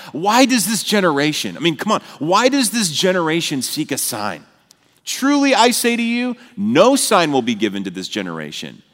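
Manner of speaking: a lightly voiced Jesus, pleading then firm; Jesus rebuking. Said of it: "here's how he responds to them with this deep sigh".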